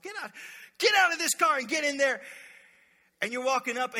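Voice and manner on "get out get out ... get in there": higher, louder barked order out of the car; hammed-up parent yelling at kids; mock yelling. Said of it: "you're still yelling at me".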